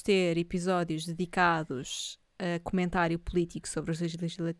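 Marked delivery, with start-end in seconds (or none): 3.2-4.5 choking on a word mid-sentence; words catch in the throat; engasgado. Real, not acted. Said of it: "esperem que eu engasguei-me um pouco". (a engasgar-se a meio da palavra)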